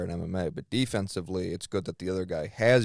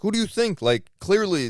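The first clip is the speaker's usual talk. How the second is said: retold candid answer; 10 semitones higher, 6 dB louder than usual. Quoting Putin's candid answer.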